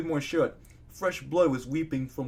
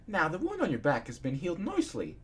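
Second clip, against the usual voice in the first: mildly cheerful, higher voice; happy; 5 semitones higher than usual. A narrator's reading. Doctor reports the wound has healed, happily. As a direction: lift the pitch, pleased to report. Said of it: "he said happily".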